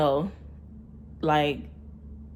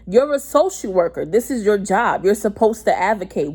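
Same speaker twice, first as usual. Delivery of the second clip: arguing; 3 semitones higher, 3 dB louder than usual. Retold or imitated. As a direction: lay down the job duties in a retold row. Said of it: "arguing with me".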